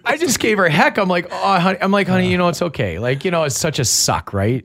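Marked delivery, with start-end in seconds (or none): 1.3-1.8 soothing dad. Retold or imitated. Dad comforting crying daughter. 2.1-3.0 soothing dad. Retold or imitated. Dad comforting crying daughter.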